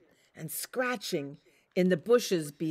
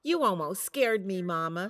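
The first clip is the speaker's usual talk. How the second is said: Little Wolf; 2 semitones higher, 3 dB louder than usual. Acted. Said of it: "said Little Wolf".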